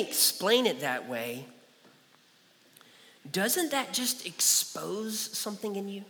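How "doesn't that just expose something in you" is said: hushed, probing question; whispered challenge. Acted. Preacher presses the congregation to self-examine, whispered. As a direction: whisper it to their conscience.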